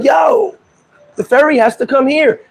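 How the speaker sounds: high-pitched "Yo", then insistent; retold calling out. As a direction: imitate a guard calling out to a group. Acted guard calling to the group.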